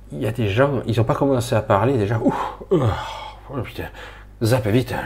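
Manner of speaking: worked-up, groaning recoil; acted revulsion. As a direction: react as if overwhelmed and desperate to switch off. Acts out recoiling from people on TV.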